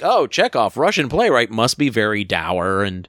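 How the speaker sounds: a lightly put-on Russian accent, slowing on the gloomy parts; playful mock Russian accent. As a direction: imitate a dour Russian, half joking. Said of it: "No, your accent".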